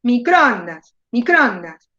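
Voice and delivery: "microondas" with ON stretched, then falling; teacher's demo of "microondas", peak on ON; exaggerated stressed syllable. Shown as a demonstration. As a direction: lean hard on ON in "microondas". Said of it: "exageren y digan".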